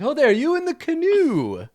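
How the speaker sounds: high, loud, drawn-out hail; knight hailing. Acted. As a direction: call out slowly to a distant canoe. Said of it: "he's like".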